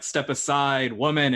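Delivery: lightly robotic, stiff delivery. Acted. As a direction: say it like a clockwork machine. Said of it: "in a somewhat robotic voice".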